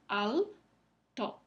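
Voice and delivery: "alto" split as al-to; syllabified. Shown as a demonstration. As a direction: pause "alto" between al and to. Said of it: "vamos a dividirla en dos sílabas".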